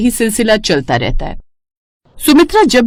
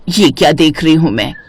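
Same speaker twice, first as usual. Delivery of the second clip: put-on lower, older mother-in-law voice, sweetly fond; 4 semitones lower than usual. Mother-in-law fussing over the neighbour's halwa, lower voice. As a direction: play the doting mother-in-law, a lower aged voice.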